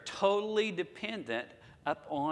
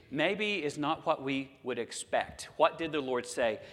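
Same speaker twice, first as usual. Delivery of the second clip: usual speaking voice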